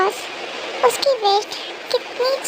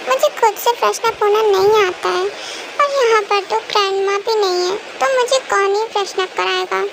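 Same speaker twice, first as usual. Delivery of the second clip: put-on childish girl voice. Cookie insisting to her daddy she never lies, childlike pleading. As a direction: play a small girl protesting sweetly to her daddy.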